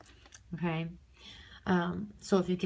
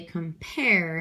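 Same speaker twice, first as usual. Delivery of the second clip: compare with the second syllable stressed; light com, strong falling PARE in compare; stress on PAIR. Shown as a demonstration. Teacher showing how she says compare, stress on the pair. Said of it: "I stress the pair".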